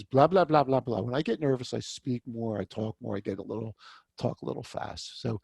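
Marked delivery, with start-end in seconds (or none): 0.0-1.0 mock chatter. Shown as a demonstration. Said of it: "do not be that person that goes".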